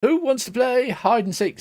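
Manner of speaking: high-pitched little pixie call; pixie Starbug. Acted. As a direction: pitch it up as a pixie inviting playmates. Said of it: "says Starbug".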